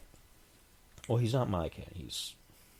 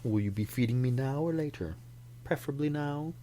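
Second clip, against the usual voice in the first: haughty cat; 3 semitones higher than usual. Retold or imitated. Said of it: "They look at you like".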